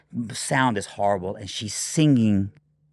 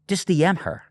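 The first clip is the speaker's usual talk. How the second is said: mock wife voice; 8 semitones higher than usual. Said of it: "So she goes".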